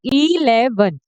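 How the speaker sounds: इलेवन slowed, opening on a long "ee"; stressed opening "ee". Shown as a demonstration. Teacher shows students the opening sound, इलेवन with long "ee". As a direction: draw out the first vowel of इलेवन, then "le-van". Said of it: "ई का sound आ रहा है".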